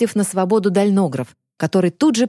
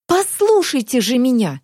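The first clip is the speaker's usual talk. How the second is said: shouting; 7 semitones higher than usual. A narrator's reading. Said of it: "Варя сорвалась на крик".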